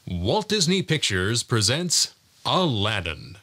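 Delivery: measured studio title announcement; movie trailer voice. Shown as a demonstration. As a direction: present the title with gravitas. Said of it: "announcer and movie trailer voices".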